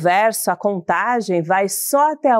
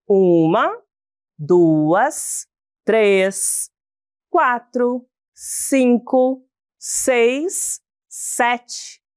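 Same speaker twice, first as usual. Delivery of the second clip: counting slowly; much slower than usual. Shown as a demonstration. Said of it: "vamos contar juntos".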